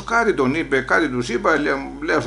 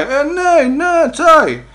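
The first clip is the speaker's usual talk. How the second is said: eager yes; 12 semitones higher, 5 dB louder, much slower than usual. Retold or imitated. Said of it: "excited agreement".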